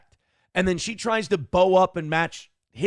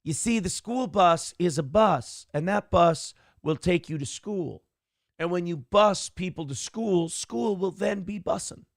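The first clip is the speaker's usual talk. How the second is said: mock Kamala explanation; 2 semitones higher than usual. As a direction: drag it out like explaining to kids. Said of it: "repeat the same concept four times".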